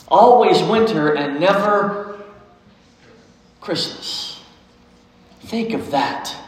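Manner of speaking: lightly voiced faun, slow, ending in a hushed Christmas; fawn. A narrator's reading. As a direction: tell it like a dark secret. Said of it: "said the fawn".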